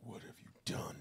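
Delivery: soft whisper; whispered echo. Pretend. Player echoing a friend's sung line, whispering.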